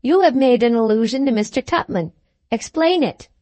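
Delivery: firm demand climbing high on "Explain it"; insist, lifting "Explain it" well up; emphatic. A narrator's reading. Aunt demands that Jingle explain, "Explain it" high and emphatic. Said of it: "said the spinster aunt emphatically".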